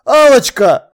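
loud, high desperate cry; imploring yell; shouting. A narrator's reading. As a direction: cry out her pet name in alarm. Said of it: "закричал я".

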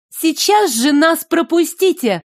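high, ringing princess command; cartoon princess. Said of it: "раздался звонкий, уверенный голос принцессы".

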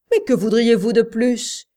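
loud exasperated outcry; cry out. A narrator's reading. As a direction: throw the question at him, loud. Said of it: "cria Jimmy".

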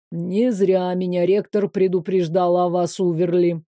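a teacher warned about her; low weary teacher's voice; reproachful professor. Acted.

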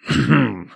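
short huffing "hm"; dismissive snort. A narrator's reading. Father scoffs at his daughter's seance tale, snorting. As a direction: snort in disbelief. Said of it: "фыркнул папенька".

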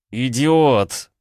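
furious shouted insult; barked. A narrator's reading. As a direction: bark the insult at him. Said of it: "рявкнул я".

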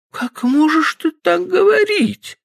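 put-on high, slow girlish reproach; a young woman hurt and reproaching; reproachful exclamation. Stephanie reproaching Frank, high and slow. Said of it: "с упрёком воскликнула она".

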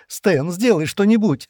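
slow, high desperate plea; drawn-out high plea for help; begging. A narrator's reading. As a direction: beg him to save her. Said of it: "взмолилась она".

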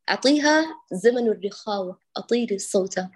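usual speaking voice

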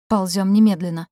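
sharp urgent order; commanding. Acted. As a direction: give the order loudly. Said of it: "скомандовала я".

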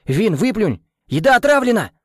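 high, loud panicked yell; alarmed shout. A narrator's reading. Boy warns that the food is poisoned, shouting. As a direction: shout the warning to spit it out.

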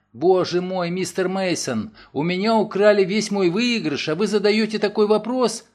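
Nancy protesting to Mason about her loss; indignant dismay. Acted. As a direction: make it sound like a catastrophe. Robbed woman protests.

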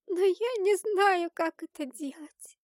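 put-on high, slow girl's voice; helpless protest. A narrator's reading. Girl told to summon Dizrael, protesting helplessly in a high voice. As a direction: plead helplessly, starting loud and high, then easing off.

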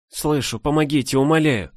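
high, pleading voice; desperate plea. A narrator's reading. Trapped girl begs for help. (умоляющий высокий голос)

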